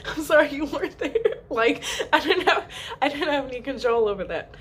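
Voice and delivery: high voice breaking with giggles; laughing apology. Retold or imitated. Wife answering husband who missed birth, laughing apology. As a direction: giggle through a mock-helpless excuse.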